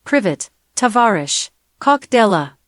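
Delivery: sample greeting with a Russian accent. Shown as a demonstration. Assistant giving the host accent samples, Russian accent. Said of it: "Russian accent".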